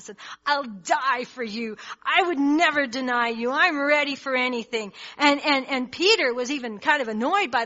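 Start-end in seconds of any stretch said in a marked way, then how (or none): 0.4-4.9 passionate vow. Retold or imitated. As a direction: swear loyalty with fire. Peter's passionate vow retold.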